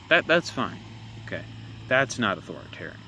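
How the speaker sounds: mock acceptance, lightly sarcastic. Real, not acted. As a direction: feign agreement with a touch of sarcasm. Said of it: "See, I could be sarcastic too".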